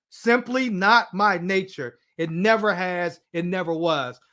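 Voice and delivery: slow, weighty stress on "simply not my nature"; emphatic reading. Retold or imitated. Reading her bolded, underlined statement to the others, slow and emphatic. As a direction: read it out slowly, as if each phrase were underlined. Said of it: "now she bolded and underlined this".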